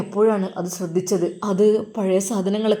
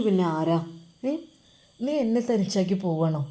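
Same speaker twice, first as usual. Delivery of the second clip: tender coaxing. Acted. Ajmal coaxing the girl tenderly.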